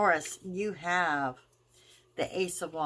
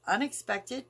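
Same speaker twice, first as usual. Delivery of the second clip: Unexpected said alone, set apart and pitched high; stress on unexpected; 6 semitones higher than usual. Shown as a demonstration. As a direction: lift and hit Unexpected as its own word. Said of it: "I really want to stress the word unexpected".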